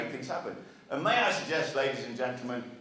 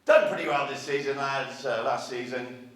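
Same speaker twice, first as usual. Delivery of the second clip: Sir Alex Ferguson. Pretend. Manager to his players, mock team talk, projected. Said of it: "I don't do his accent".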